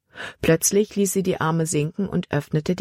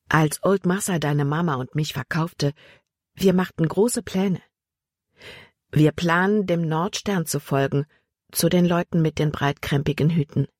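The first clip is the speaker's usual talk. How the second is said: Emma telling her story. Acted. Emma tells Jordan of his mother, lightly voiced, somber. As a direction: speak as old Emma reliving her escape plans. Narrator voices Emma's tale.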